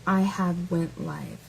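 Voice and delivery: a hint of a slow hillbilly drawl; mock hillbilly. Lightly mocking the commenter as a hillbilly. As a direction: drag it out like a mild hillbilly. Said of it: "I've only heard hillbillies speak like that".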